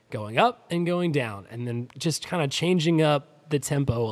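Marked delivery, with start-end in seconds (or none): 0.1-0.7 going up. Shown as a demonstration. Host showing vocal dynamics to listeners, voice going up. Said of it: "tried to do better of". 0.9-1.5 going down. Shown as a demonstration. Host showing vocal dynamics to listeners, voice going down. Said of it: "tried to do better of".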